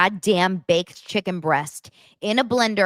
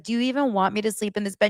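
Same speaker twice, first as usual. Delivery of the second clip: exasperated Nick; 4 semitones higher, much faster than usual. Retold or imitated. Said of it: "And he's like".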